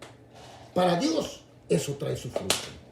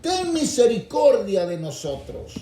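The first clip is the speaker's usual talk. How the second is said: mild mock cry; 4 dB louder than usual. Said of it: "sino que gritan, dicen".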